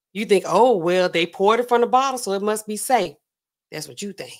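a hint of a smug villain, softening at the ends; a rapper. Host telling guest the bottle is laced, mock menace.

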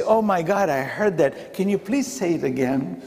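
a touch of happy eagerness; eager delight. Retold or imitated. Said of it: "should have a different attitude".

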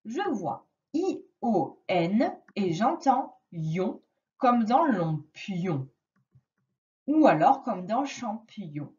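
slow, careful sound recap; slow teaching voice. Shown as a demonstration. Teacher recapping sounds slowly to a child. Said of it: "je vais te faire un petit récapitulatif".

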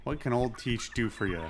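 put-on lightly done pirate accent; old sea captain with a touch of pirate accent. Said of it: "I don't know why I'm doing the accent".

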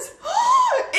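very high, loud voiced gasp; astonished gasp. Real, not acted. Vlogger spotting her friend's gift, loud astonished gasp. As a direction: gasp sharply with a squeak of joy.

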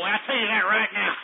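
said through a real chuckle; laughing. Real, not acted. Boasting about a Texan president, laughing through it. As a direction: let the laugh spill into the words.

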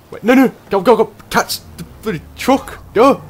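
high, loud panicked urging; frantic shouts during a chase; frantic yelling. Real, not acted. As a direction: yell them on in a panic.

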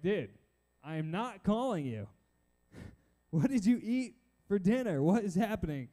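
mock exasperation, emphatic; getting annoyed. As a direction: protest to someone who keeps waking you. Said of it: "I might be getting annoyed by this time".

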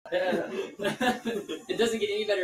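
drawn out, slowly, laughing; slow emphatic repeat. Real, not acted. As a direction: stretch each word for emphasis. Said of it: "and it doesn't get any better".

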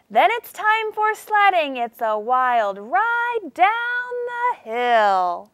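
high on sledding, then coast slowly down to the hill; high launch then slow glide down the hill. Shown as a demonstration. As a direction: let the sentence sled down. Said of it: "My voice sounded like I was sledding down a hill".

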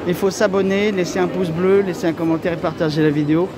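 muffled behind cloth mask; speaking with covered mouth; through a face mask. Real, not acted. Seen 3: White cloth mask covers mouth and nose in every labelled frame.

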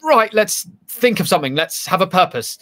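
acted-out inner voice getting down to business; brisk resolve. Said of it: "my brain goes".

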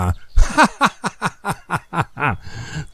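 soft rueful chuckle; self-mocking laugh. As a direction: laugh at your own foolishness. Lop laughs at himself. (หัวเราะเยาะตัวเองเบาๆ)

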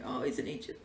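whisper. Real, not acted. Gushing over bear.

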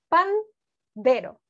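drawn out slowly syllable by syllable; slow spelling-out. Shown as a demonstration. Teacher dictating a word to children, slowly. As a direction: stretch each syllable for the kids. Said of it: "¿Pueden escribir pandero?".

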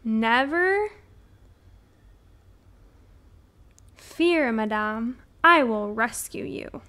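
heroic storybook declaration, drawn out; announcing. A narrator's reading. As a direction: declare the rescue like a gallant woodcutter. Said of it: "The woodcutter announced".

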